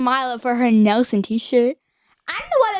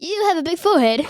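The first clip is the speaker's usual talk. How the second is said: higher-pitched mock British accent; 4 semitones higher than usual. Shown as a demonstration. Teen teasing dad under his accent rule, mock British accent. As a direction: deliver it in an amateur British accent. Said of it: "you have to do it in a British accent".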